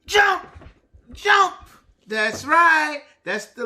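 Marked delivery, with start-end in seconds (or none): 0.1-1.6 high, bright call of the word; excited jump. Shown as a demonstration. Teacher cheering a word to young learners. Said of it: "Like what?".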